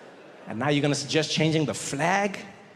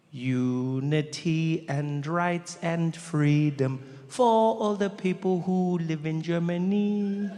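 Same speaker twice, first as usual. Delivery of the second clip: solemn translation; much slower than usual. Retold or imitated. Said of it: "which translated into English is".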